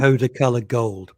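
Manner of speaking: attempted Geordie catchphrase, mildly done; Geordie accent. Shown as a demonstration. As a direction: have an unsure stab at Geordie. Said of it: "the phrase to show you're a Geordie".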